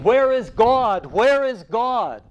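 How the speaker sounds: high, loud and slow, calling out twice; a madman crying out in the marketplace. A narrator's reading. Madman calling out to the crowd, loud and desperate. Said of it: "And he was crying".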